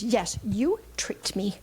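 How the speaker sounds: put-on slow, whispered pout of a six-year-old; sulky whisper of a child. Granddaughter accusing grandma of tricking her, sulky whisper. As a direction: mutter it like a hurt kid.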